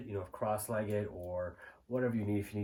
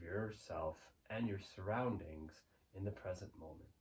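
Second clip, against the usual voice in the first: calm, softer meditation voice with long pauses; guided meditation; 5 dB quieter than usual. Real, not acted. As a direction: guide the listener gently into the present moment, unhurried.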